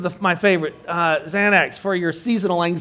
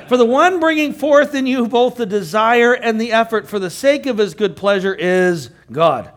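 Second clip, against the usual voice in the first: higher, louder verse reading, easing toward the end; scripture reading; 4 semitones higher, 5 dB louder than usual. Acted. Teacher reading verse thirteen to the class, raised scripture reading. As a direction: proclaim the verse to the room.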